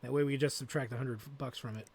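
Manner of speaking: ordinary talk, nothing marked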